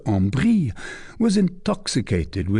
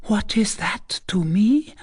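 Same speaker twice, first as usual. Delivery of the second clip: exclaiming; 10 semitones higher than usual. A narrator's reading. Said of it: "exclaimed Fleur de Lis".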